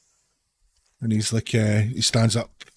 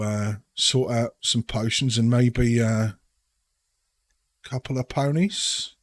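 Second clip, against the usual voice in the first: put-on Cockney accent; 4 semitones higher than usual. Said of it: "doing my dreadful Cockney accent".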